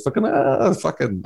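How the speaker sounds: lightly voiced bored teenager, drawling the swear; a hint of a sulky teen mumbling "fucking"; mocking teen impression. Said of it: "that's my impression of a teenager".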